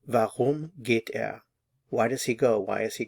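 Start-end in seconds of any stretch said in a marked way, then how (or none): 0.1-1.4 Warum geht er said slowly, each word apart; slow it down so learners can follow; slow model. Shown as a demonstration. Teacher repeats the German question slowly for learners. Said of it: "put it all together".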